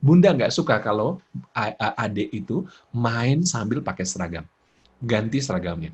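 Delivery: even, restrained mother voice; firm but calm correction; steady, not angry. Shown as a demonstration. Mother telling child to change uniform, steady intonation. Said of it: "daripada marah-marah".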